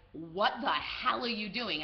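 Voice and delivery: slow, drawn-out incredulous scolding; mock appalled, stretching the words out; appalled disbelief. Companions to woman petting a lion, appalled. Companions alarmed behind her.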